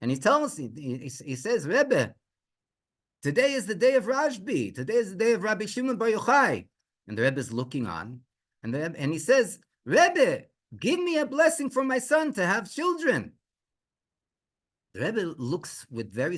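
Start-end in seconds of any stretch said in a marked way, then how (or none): 1.7-6.7 tearful plea. Retold or imitated. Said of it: "he starts crying". 9.8-13.3 high-pitched, imploring retold plea; tearful plea. Father begging the Rebbe for his son, pleading. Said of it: "he starts crying".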